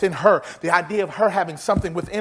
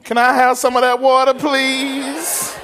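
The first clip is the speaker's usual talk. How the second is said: eager plea; 3 semitones higher, 5 dB louder, slower than usual. Pretend. Preacher begging for the water.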